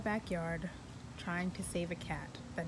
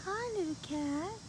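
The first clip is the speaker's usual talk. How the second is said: whisper; 9 semitones higher than usual. Real, not acted. Greeting a stray cat.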